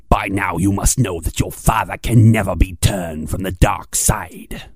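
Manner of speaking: lightly voiced sinister Emperor; a hint of menacing old Emperor; Emperor Palpatine. Palpatine taunting Luke about his father, lightly sinister. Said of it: "that of Emperor Palpatine".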